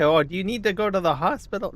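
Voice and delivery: a friend asking in alarm, hurried and high; mock alarmed friend; concerned friend. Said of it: "and they say".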